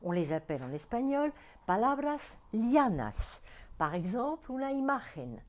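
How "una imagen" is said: imagen stressed on the MA; Spanish "imagen" with weight on ma; stress on next-to-last syllable. Shown as a demonstration. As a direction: land on the middle syllable of imagen. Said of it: "l'accent tonique sur l'avant-dernière syllabe".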